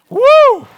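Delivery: very high, loud whoop; excited whoop. Real, not acted. Preacher whooping at his own punchline, loud whoop. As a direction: let out a big woo.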